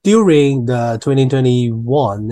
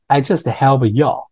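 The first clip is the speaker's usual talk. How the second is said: slow demo read; 3 semitones higher, 3 dB louder than usual. Shown as a demonstration. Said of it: "这个就是you all".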